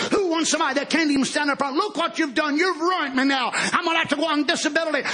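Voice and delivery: hammed-up aggrieved tirade; angry rant. Preacher as Balaam berating his donkey, mock angry rant. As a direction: rattle off complaints in mock exasperation. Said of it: "He is so angry".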